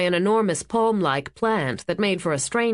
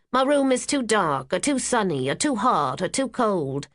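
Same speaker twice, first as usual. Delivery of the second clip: mocking whine; 4 semitones higher than usual. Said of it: "all they've done is whine".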